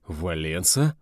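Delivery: incredulous rising echo of a name; taken aback, voice rising at the end; astonished question. Acted. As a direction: ask it in disbelief. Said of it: "выпучил глаза Бергман".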